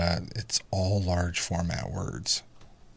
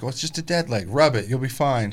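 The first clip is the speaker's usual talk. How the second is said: dismissive dad; 5 semitones higher, 3 dB louder than usual. Retold or imitated. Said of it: "And I was like".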